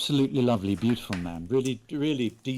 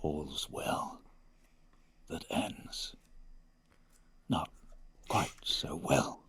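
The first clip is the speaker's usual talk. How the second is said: low, slow, quiet dirge declamation; Shakespearean dirgy voice; 5 semitones lower, 7 dB quieter than usual. Pretend. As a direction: intone it slowly like a gloomy bard. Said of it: "my Shakespearean dirgy voice".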